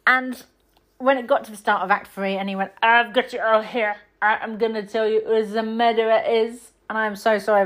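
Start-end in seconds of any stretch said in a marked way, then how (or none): 2.8-6.7 lightly voiced Belgian accent, badly done; hint of a Belgian detective, hammed; bad Poirot impression. Detective gathers suspects, in a weak Belgian accent. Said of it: "that's an atrocious accent".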